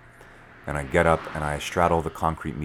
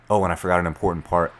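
usual speaking voice

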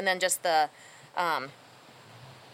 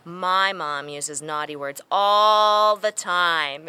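slow, lower, matter-of-fact little tattler; lightly voiced child, drawing out each word; three-year-old girl; 4 semitones lower, much slower than usual. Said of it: "little three-year-old girls chimes in and says".

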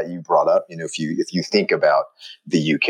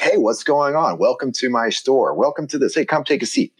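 high, eager shop greeting; welcoming shopkeeper; 8 semitones higher than usual. Retold or imitated. New York store clerk welcoming a customer, high and eager. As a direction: roll out the welcome mat. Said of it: "people are like".

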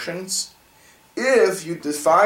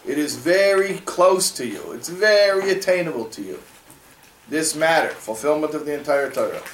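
emphatic affirmation; 3 semitones higher than usual. Acted. Acting out the verse's confident promise.

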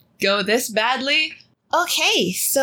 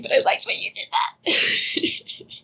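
whispering; 4 semitones higher, slower than usual. Real, not acted. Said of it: "I know I shouldn't break the fiction".

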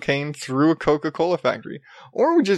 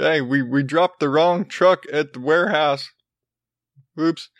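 lightly voiced Southern bumbler; a hint of a goofy Southern accent; dumb Southern mistake voice; 3 semitones higher than usual. Trucker owning up to dropping the wrong truck, mild dumb Southern voice. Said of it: "every dumb mistake voice is some Southern".

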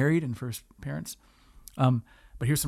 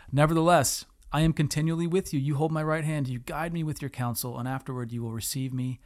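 scripture reading. Acted.

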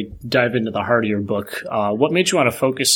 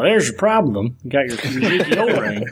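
put-on thick Southern accent; 2 semitones higher than usual. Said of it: "putting on my, my thick Southern accent".

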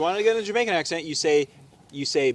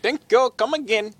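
higher, mock Indian accent; attempted Indian accent; 5 semitones higher than usual. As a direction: have a poor go at an Indian accent. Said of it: "I can't do Indian accents".

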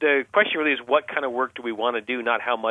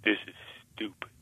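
sullen mumble; 3 semitones lower, 10 dB quieter than usual. Retold or imitated. Sullen child answer.

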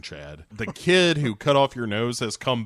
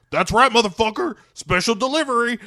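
higher, louder cocky taunt; taunting bro; 11 semitones higher, 4 dB louder than usual. Acted. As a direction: gloat before the punch. Conan taunting guard.

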